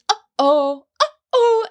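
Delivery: uh-oh with a hard glottal onset; glottal clicks. Shown as a demonstration. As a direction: click the vocal folds together. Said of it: "hear that little click in your voice".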